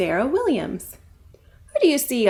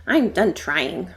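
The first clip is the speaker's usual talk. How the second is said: grumbling; 3 semitones lower than usual. Acted. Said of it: "grumbled Roxy".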